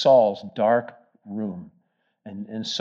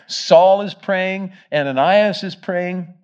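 slow, high, loud emphasis on each name; emphatic preacher stressing who prays; 6 semitones higher, 6 dB louder, slower than usual. Real, not acted. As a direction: lean into every name slowly. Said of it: "There's prayer going on all over the place".

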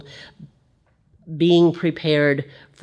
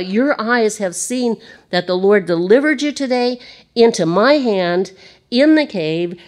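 raised, pleading voice of David; preacher acting out David's earnest plea; voicing David pleading; 5 semitones higher than usual.

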